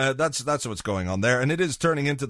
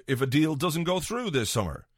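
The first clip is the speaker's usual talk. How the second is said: ordinary talk, nothing marked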